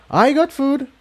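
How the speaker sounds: high, sudden nervous blurt. A narrator's reading. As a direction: blurt it out, caught off guard. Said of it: "she blurted out".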